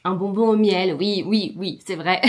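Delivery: talking around a honey candy; sucking a sweet while speaking; mouth full. Real, not acted. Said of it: "j'ai un bonbon dans la bouche".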